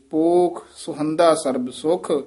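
ਸੁਹੰਦਾ with a vowel midway between o and u; a medium-length first vowel in ਸੁਹੰਦਾ. Shown as a demonstration. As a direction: blend o and u in ਸੁਹੰਦਾ. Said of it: "ਵਿਚਾਲੜਾ ਜਿਹਾ ਮੇਲ ਉਚਾਰਨ ਕਰਨਾ ਹੈ".

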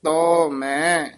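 very slow ਤੋ ਮੈਂ before a rest; drawn out, then pause. Shown as a demonstration. Teacher marks the rest after ਤੋ ਮੈਂ for the student. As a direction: stretch ਤੋ ਮੈਂ, then stop. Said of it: "ਇੱਥੇ ਵਿਸਰਾਮ ਹੈ".

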